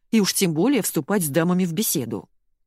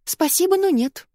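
huffy refusal; 13 semitones higher, 3 dB louder than usual. A narrator's reading.

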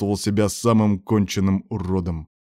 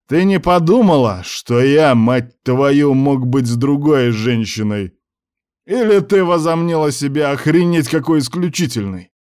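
much higher and louder, raging; furious; 6 semitones higher, 5 dB louder than usual. Acted. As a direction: hammer her with fury. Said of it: "Давил в бешенстве Мусса".

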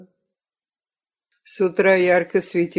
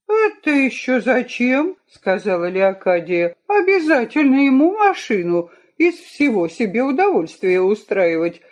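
irritated nagging wife; louder, grumbling complaint; scolding wife; 4 semitones higher, 4 dB louder than usual. Acted. Wife scolds about the car.

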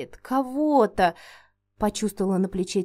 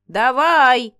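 loud barked command; sharp shout; 2 semitones higher, 7 dB louder than usual. A narrator's reading. Witch Inga yells at the dragon to hand over its tail. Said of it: "прикрикнула".

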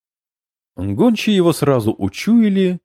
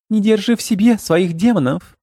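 high urgent goblin plea; 8 semitones higher than usual. A narrator's reading. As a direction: coax him like a frantic goblin. Goblin urging comrade to vomit.

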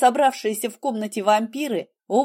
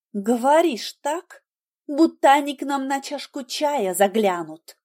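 flaring up; 5 semitones higher than usual. Acted. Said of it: "вспыхнула я".

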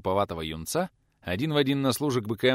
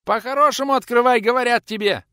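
squeaky yell; 11 dB louder than usual. A narrator's reading. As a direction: shout it from the yard. Youth hammering on door.

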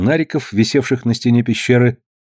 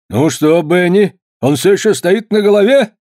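amused father; 7 semitones higher, 4 dB louder than usual. A narrator's reading. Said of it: "осведомился фермер".

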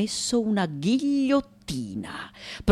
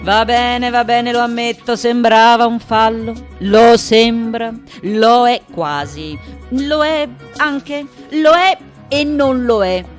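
raised voice, words stretched out; grudging concession; 4 semitones higher, 5 dB louder than usual. Acted. Sculptor admitting it looked like a phallus, grudging concession. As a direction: draw each admission out, loud and sustained.

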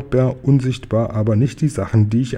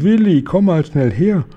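mother shouting; 5 semitones higher than usual. A narrator's reading. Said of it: "Und da schreit sie".

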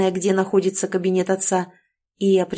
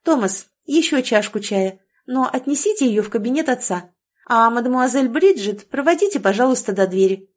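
crisp clipped delivery. Acted. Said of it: "отчеканила я".

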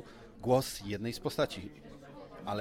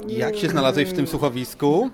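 teasing laugh; 7 dB louder than usual. Real, not acted. Teasing question to guest.

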